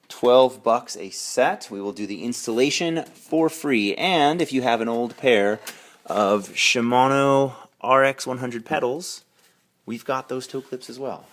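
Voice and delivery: a playful put-on Canadian accent that slips in; a light mock Canadian accent selling pedals; fake Canadian accent. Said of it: "fake Canadian accent slipping out there".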